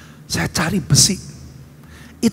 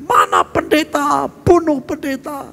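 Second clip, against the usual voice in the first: retold mob yell; 6 semitones higher than usual. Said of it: "dengar teriak".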